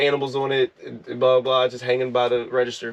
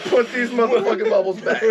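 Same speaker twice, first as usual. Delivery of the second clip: laughing whisper yell; 8 semitones higher than usual. Shown as a demonstration. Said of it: "You failed".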